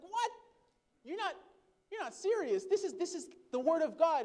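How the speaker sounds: can't believe the minister means it; stunned protest at the minister; incredulous. Retold or imitated. Shocked man challenges minister.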